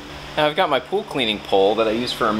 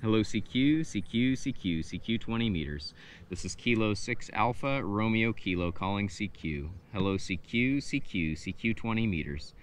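measured ham radio calling, softer voice; soft, rhythmic call-sign patter; 11 dB quieter than usual. Real, not acted. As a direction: put out a general call on the radio, softly.

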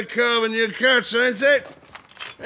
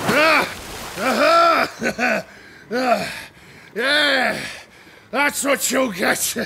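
triumphant whoop; 2 semitones higher, slower than usual. Acted. Fisherman wins fight.

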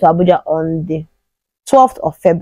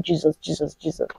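much softer, fading breathy plea; faint pained plea; 3 semitones lower, 12 dB quieter than usual. Retold or imitated. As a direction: barely voice the cry, fading out. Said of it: "I was saying".

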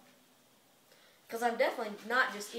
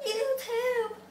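squawky bouncy penguin; 12 semitones higher, 5 dB louder than usual. Acted.

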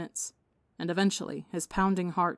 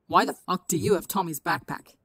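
angry; 5 dB louder than usual. Acted. Angry kid confronts vigilante.

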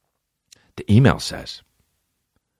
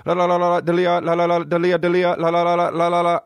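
garbled phone voice; 3 semitones higher than usual. Retold or imitated. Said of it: "That's all I hear".

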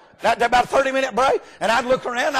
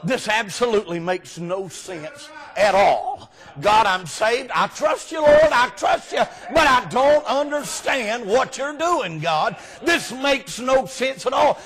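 mock anguished prayer. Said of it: "I have cried at night and said".

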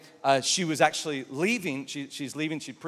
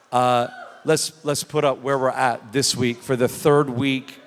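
excited shout; 6 dB louder, slower than usual. Real, not acted. Excited announcement, crowd cheering.

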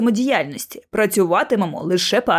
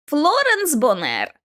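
«Бонер» із наголосом на останньому складі; повільно вимовити «Бонер», виділивши другий склад; наголос на другому складі; 5 semitones higher, slower than usual. Acted. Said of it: "наголос на другому складі до твого відома". (у слові «Бонер» наголошене «-нер»)

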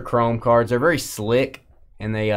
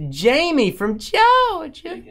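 high silly voice; 6 dB louder, slower than usual. Pretend. Teasing a viewer.

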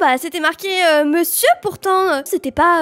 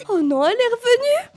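high-pitched alarmed pleading; mock panic, pitch climbing; acted panic; 5 semitones higher than usual. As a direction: beg to get the door shut. Acted panic at returning killer.

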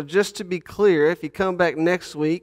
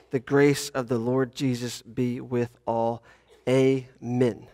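measured, solemn reading of Scripture; 4 dB louder than usual. Acted. Pastor reading Revelation to the congregation, solemn reading. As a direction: read the text with reverent weight.

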